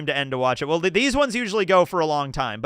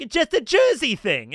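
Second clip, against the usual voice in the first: put-on a self-admittedly weak New Jersey accent, pitched up; attempted Jersey accent; 5 semitones higher than usual. Streamer mimics Chiffon's dub voice in a clumsy Jersey accent. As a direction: try a Jersey accent you know is bad. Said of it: "I suck at a Jersey accent".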